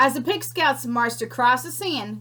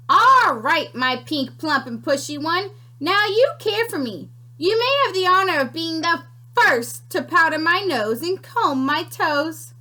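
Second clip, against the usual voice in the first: bossy creature; 5 semitones higher, 4 dB louder than usual. Acted. Creature bossing Pinkerton.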